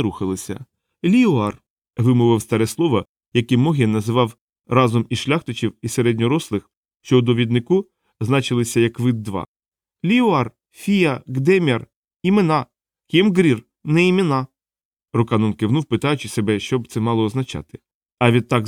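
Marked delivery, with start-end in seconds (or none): 1.0-1.6 high-pitched creature voice; little creature. A narrator's reading. Black-faced creature recalling an old word, high voice. 10.0-14.5 high-pitched creature, word by word; little creature. A narrator's reading. Small creature explaining names to Rocannon, high-pitched voice.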